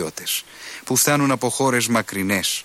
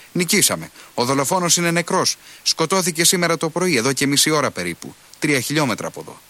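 triumphant; 6 semitones higher than usual. A narrator's reading. Colonel announces victory.

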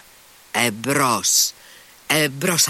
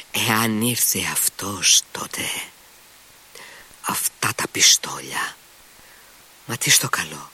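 anxious whisper; 3 semitones lower than usual. Acted. Clerk's private anxious thoughts.

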